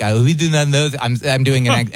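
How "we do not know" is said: lightly hammed French accent. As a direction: imitate French guys with a comic accent. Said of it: "a perfect accent".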